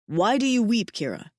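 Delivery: a hint of a devoted big mate; tender alien mate. Mate asks gently.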